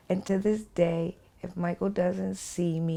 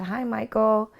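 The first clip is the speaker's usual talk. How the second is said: sing-song; 4 semitones higher than usual. Retold or imitated. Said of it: "I'm still sing-songing with him".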